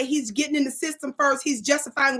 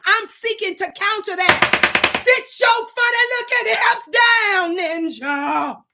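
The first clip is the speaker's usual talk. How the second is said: higher, loud, slow shout; furious slow shout at a commenter; spirit-driven shout; 4 semitones higher, 4 dB louder, slower than usual. Real, not acted. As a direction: blast the troll down. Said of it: "That was my spirit that attacked".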